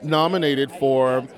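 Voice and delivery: upbeat red carpet host patter; bubbly entertainment reporter, slowing on the title; gushing red carpet chatter. Acted.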